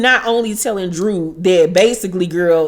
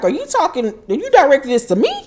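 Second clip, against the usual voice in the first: perplexed; 6 semitones higher, much faster than usual. Retold or imitated. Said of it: "Kenya is perplexed".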